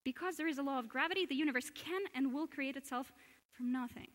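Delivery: fast, run-together reading of the same quote; quick reread. Shown as a demonstration. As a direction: rattle it off in one breath. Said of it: "Shall I read it again?".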